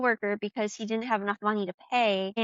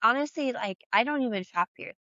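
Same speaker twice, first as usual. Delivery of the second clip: candid barista; 4 dB quieter than usual. Pretend. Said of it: "for an authentically me reaction".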